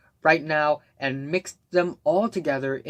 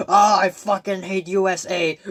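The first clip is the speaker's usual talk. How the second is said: mocking whine; 3 semitones higher, 5 dB louder than usual. Mocking the band's message.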